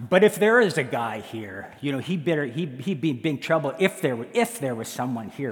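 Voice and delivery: posture up with a bit of bravado; posturing bravado. Acted. Husband posturing for any intruder in the yard, blustering. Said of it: "we kinda posture up".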